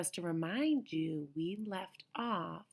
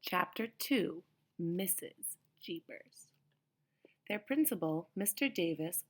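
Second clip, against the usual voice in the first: put-on reading a picture book to kids; paced, expressive read-aloud for children; story reading. A narrator's reading. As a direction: storytime narration. Reads chapter aloud to children.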